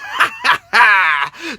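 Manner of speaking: exaggerated villain-style laughing; mocking laugh. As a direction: mimic a gloating cackle.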